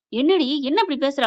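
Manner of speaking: acted-out irritation, a touch firmer; mild anger. Father-in-law answers his wife's callous remark, mildly angry. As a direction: lightly voice an angry rebuke. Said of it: "கோவம் வருது அண்ணாமலைக்கு".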